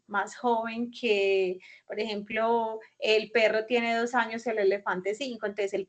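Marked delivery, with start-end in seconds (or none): 0.1-1.6 "más joven que" said slowly, each word spaced; slow teacher model of "más joven que"; slow, deliberate repeat. Shown as a demonstration. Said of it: "entonces más joven que".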